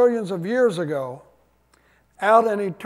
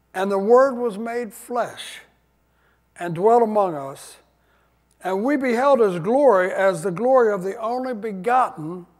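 louder, measured reading of the verse; scripture reading; 4 dB louder than usual. Acted. Pastor reading John to his congregation, full-voiced and measured. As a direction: read it with weight to the church.

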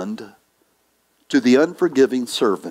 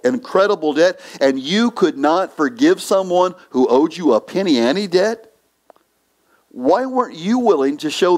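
mock furious master; 3 semitones higher than usual. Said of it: "The master was furious".

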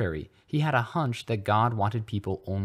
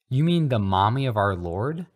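loud, shocked demand; outraged disbelief; scandalized; 4 semitones higher, 7 dB louder than usual. A narrator's reading. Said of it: "Harry demanded in scandal".

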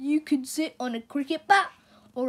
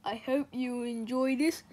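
soft whispered aside; 5 dB quieter than usual. Real, not acted. Host whispering a wish to the listening children. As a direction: breathe it as a secret.

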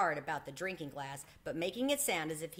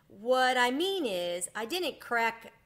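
dignified; 5 semitones higher, 6 dB louder than usual. A narrator's reading. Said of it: "with dignity".

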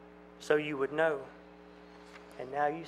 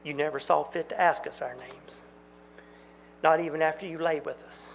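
accusing. Acted. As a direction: throw it back at him. Maiden accusing Jack.

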